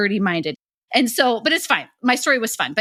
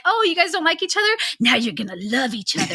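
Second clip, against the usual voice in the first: quick, high mock-surprised question; playful high-pitched gotcha; teasing reaction; 5 semitones higher than usual. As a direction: tease in a higher, rushed voice. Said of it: "I'm like".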